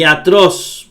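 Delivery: atroz drawn out with the weight on the final syllable, iaTRÓS; stress on last syllable. Shown as a demonstration. Teacher showing where the accent goes, stress iaTRÓS. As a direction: lean slowly on the end of atroz: iaTRÓS. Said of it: "porque el acento va aquí".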